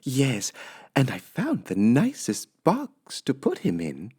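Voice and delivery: high, slow and pleased; high housemaid musing to herself; high, sweet Amelia Bedelia voice. Acted. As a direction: play the cheerful literal maid. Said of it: "said Amelia Bedelia".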